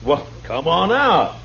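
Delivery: high, slow, impatient call. Acted. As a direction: call him out from the back room. Marshal summons helper from back room.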